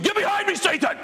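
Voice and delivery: high, loud mock scream. Churchgoer screams at a gossiping friend, mock scream. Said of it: "And you just scream".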